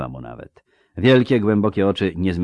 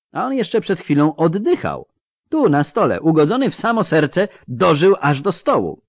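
animated clinical report, growing higher; fascinated surgeon; 6 semitones higher, 7 dB louder than usual. Acted. Surgeon showing a fatal wound, fascinated amazement. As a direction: marvel aloud at the wound, louder.

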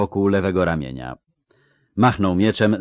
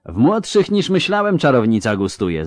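hissed; 6 semitones higher, 3 dB louder than usual. A narrator's reading. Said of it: "zasyczał".

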